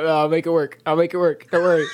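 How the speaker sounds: loud, high, frantic reassurance; frantic shout. Real, not acted. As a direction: shout it over the chaos. Frantic DM fixing stream.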